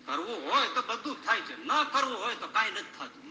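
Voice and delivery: chuckling through the words; amused, laughing as you say it; laughing repeat. Acted.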